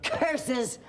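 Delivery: high hammed-up villain curse; foiled villain. Grandma as the witch after losing, hammed-up curse. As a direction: ham up the villain's defeat. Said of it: "And the wicked witch said".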